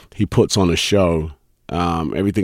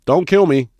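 mock fear; 10 semitones higher, 6 dB louder than usual. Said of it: "Is that one's good".

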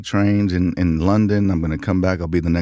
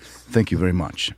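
put-on lightly English-accented polite thanks; courteous, understated English accent. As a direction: drop back into a mild English accent. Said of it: "I had an English accent".

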